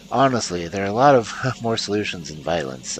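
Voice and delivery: firm, clear, carrying voice. Acted. Player's character to the group, in a clear voice. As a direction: speak it out clearly and steadily. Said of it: "I said in a clear voice".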